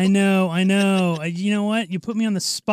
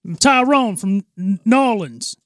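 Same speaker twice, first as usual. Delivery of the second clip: lightly voiced Tyrone from New Orleans; second go at the caricature; African American impression; 3 semitones higher than usual. Friend reintroduces himself as Tyrone, mild African American impression. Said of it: "do African American guy".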